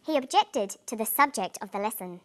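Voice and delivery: "objected" as ob-JECT-ed, "subject" as SUB-ject; contrasting word stress. Shown as a demonstration. Teacher reads a test sentence, contrasting stress on "objected" and "subject". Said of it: "how the stress in words can change meaning".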